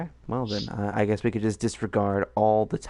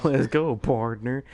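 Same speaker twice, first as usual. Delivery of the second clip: western cowboy; 3 semitones higher, slower than usual. Pretend. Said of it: "thinking of the Western version".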